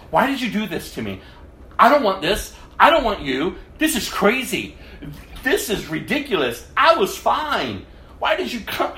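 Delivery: retold angry cry to God. Angry at God, yelling on the roadside. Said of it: "I said".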